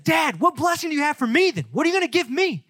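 high-pitched mock wail of protest; Esau crying out. Esau begging Dad for a blessing, crying out. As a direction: plead with your father, hammed-up and hurt. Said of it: "Esau's crying out".

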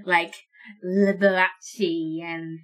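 slow, haughty undead aristocrat; snooty lich voice. Acted. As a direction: sniff at them, offended. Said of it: "to say in this voice".

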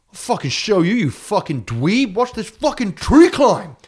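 shrill up the pitch and spit it out like a riled bro devil; devil's furious retort. Retold or imitated. Devil snapping back at Jack's dare, high and loud. Devil voiced angrily climbing.

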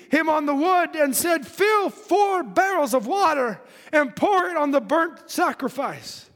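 declaimed Bible verse; scripture reading. Acted. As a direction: read scripture out to a congregation. Reads scripture in preaching voice.

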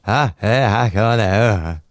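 slow, murmured send-up of an Irish broadcaster; Terry Wogan impression. Co-host imagining Terry on a shared show, impersonated. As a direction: draw it out, imitating a chuntering radio host. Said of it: "So Terry would be going".

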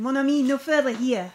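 put-on a GM doing a quick French accent for Bathos. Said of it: "He's French".

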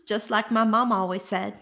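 put-on Texan twang; Texan drawl. Host caps the Seanchan bit, Texan drawl. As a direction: keep up the mock Texan. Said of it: "the Seanchan are Texas".

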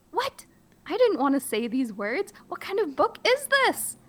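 very high squeaky disbelief; shocked outrage. Pretend. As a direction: act outraged at the book.

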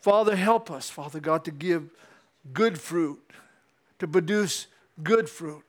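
slow, earnest closing prayer. Acted. Pastor praying over the congregation, slow earnest prayer. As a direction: pray over them, slowly.

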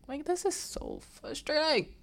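high-pitched whiny wail; hammed-up crying complaint; mock crying. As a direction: imitate a tearful, frustrated whine. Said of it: "she starts crying".

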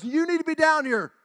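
high, loud imitated preaching; revival preacher. Evangelist addressing a revival congregation, imitated forceful preaching. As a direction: proclaim it like a fired-up evangelist. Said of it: "this man was up there preaching".

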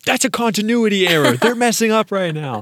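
loud, high-pitched protest; mock-outraged yell at the screen. Moviegoer objecting to a continuity error, yelling. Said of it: "I started yelling".

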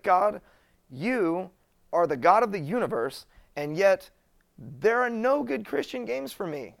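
venting at God about Christian games, hammed-up frustrated yell; retold yell at God. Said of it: "I yelled at God".

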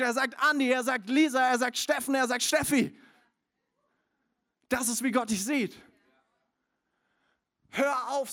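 preaching at full force. Acted. Preacher to congregation, calling out names. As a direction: call each name like a summons.

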